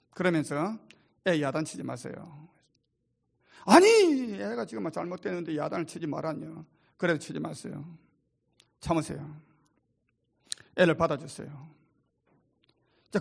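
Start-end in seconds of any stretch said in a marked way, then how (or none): 1.3-2.5 softly advising. Retold or imitated. Counselor voiced advising father. 3.7-4.3 sudden high, loud "wait, what"; father balking at the advice; startled objection. Retold or imitated. 4.3-11.7 hushed retold dialogue. Quoted counsel dialogue.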